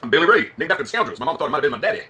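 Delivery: put-on Southern American twang; terrible Southern accent. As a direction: introduce yourself as a hammy Southerner. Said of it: "Your accent is terrible".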